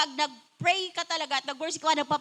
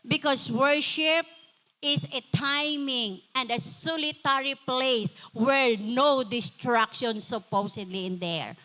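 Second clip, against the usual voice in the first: low, slow, calm voice of God; a hint of a gentle divine voice; voice of the Lord; 5 semitones lower, slower than usual. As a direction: speak slowly and gently as the Lord. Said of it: "Sabi ng Lord".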